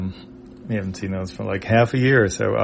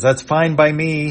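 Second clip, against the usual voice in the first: frustrated; 6 semitones higher, 4 dB louder than usual. Acted.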